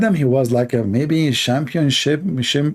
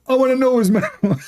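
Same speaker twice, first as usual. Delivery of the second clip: breathy high teasing whisper; mock whisper; 9 semitones higher than usual. Teasing Muslims about Matthew in a high mock whisper. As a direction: whisper it like a juicy secret.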